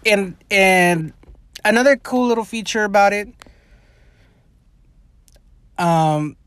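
breathless, gasping between words; talking while short of breath. Real, not acted. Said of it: "I don't know why I'm out of breath".

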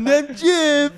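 a mocking high-pitched voice. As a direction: squeak it out like a cartoon. Echoing the silly voice.

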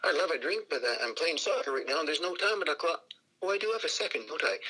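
protest, then give in, playfully acted; Wee Willie Johnson. Player answers a fan offering beer, playful Scottish impersonation. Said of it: "sees the fella and goes".

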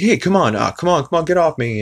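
high, loud mock protest; imitating Brian protesting. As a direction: complain while being ridden. Brian protesting being ridden.

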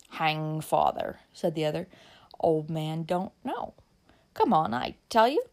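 slow, slurred and dismissive; lightly voiced drunk man. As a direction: brush off her worry, drunk. Drunk Jim dismisses her father.

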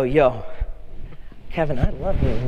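casual buddy-style, matter-of-fact; casual bro greeting. Retold or imitated. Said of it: "I go up to Kevin and I go".

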